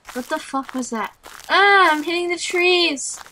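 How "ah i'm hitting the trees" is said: higher-pitched startled cry. Real, not acted. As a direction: react with a jolt. Startled by hitting trees in game.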